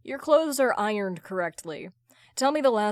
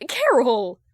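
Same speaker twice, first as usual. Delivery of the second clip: calling out; 2 semitones higher, 8 dB louder than usual. Acted. Hal calling her back.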